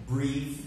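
"Breathe" modelled with a long ee; careful pronunciation of breathe. Shown as a demonstration. Teacher asks students to repeat after her, careful "Breathe". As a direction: say "Breathe" clearly for learners to copy. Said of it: "repeat after me".

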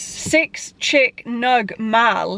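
"Six chick nug mal" in slow, separate chopped words, "meal" turned into "mal"; altered vowels. Shown as a demonstration. Rehearsing an order without the letter E, "Six chick nug mal" slow with altered vowels. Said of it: "order something without using the letter E".

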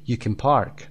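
can squeezed to a vowelless "kn"; weak can. Shown as a demonstration. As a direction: swallow the vowel in can, stress park. (can بدون صدای اَ، کوتاه و ضعیف)

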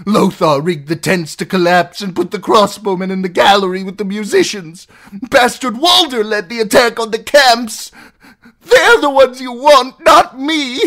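high, loud frantic argument; desperate pleading. Acted. Captive demanding trial from outlaws, desperate pleading. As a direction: argue wildly for your life.

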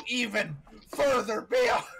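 high, loud battle cry; anime power-up scream. Acted. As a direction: yell "further beyond" like a transforming hero. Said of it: "go as high as you physically can".

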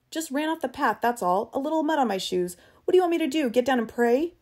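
high-pitched, defensive complaint; agitated protest. Acted. Eccles playing down the mud on his shoes, agitated protest. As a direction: argue back, upset and exasperated.

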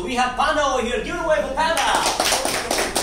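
announcer call-up. Real, not acted. Host asks a hand for Panda, announcer call-up. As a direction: bring the next speaker on for applause. Host calls up next speaker.

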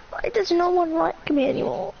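real hurt, partly whispered complaint; tearful. Real, not acted. Crying child to friend who may leave, tearful. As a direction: voice thinning with upset. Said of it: "Tyler's crying".

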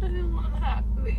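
drugged tearful whine; crying. Real, not acted. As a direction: whimper through numb lips. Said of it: "you're really crying".

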